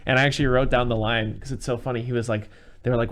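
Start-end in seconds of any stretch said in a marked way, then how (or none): none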